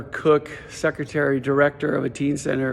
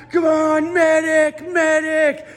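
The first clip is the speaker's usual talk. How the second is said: high, playful shout for a medic; a hammed-up army-game scream; mock battlefield yell; 12 semitones higher, 4 dB louder, slower than usual. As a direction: yell like a kid playing army. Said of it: "I'm, like, screaming out".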